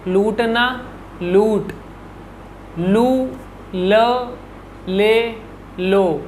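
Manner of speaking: ल with each vowel, said one at a time; teacher reading syllables; la syllable drill. Shown as a demonstration. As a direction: drill लू, ले, लो with clear pauses. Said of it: "मैं word बोल रहा हूँ लू".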